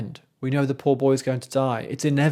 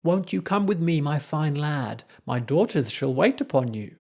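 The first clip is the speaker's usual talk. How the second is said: luring Erlking; 3 semitones higher than usual. Retold or imitated. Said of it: "trying to lure the child in".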